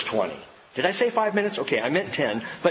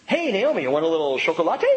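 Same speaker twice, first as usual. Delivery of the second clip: teasing dad; faster than usual. Retold or imitated. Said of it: "when I said chocolate".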